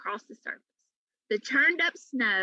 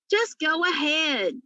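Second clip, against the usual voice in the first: light panting; 5 semitones higher, 3 dB louder, slower than usual. A narrator's reading. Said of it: "Flora panted".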